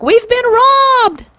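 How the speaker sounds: high, slow, drawn-out scream; screaming clerk. A narrator's reading. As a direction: wail it out in alarm. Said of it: "screamed a clerk".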